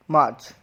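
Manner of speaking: मार्च as "maach", long vowel; silent R. Shown as a demonstration. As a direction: drop the r in मार्च. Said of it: "इसको क्या बोलेंगे". (मार्च में आर silent, "माच")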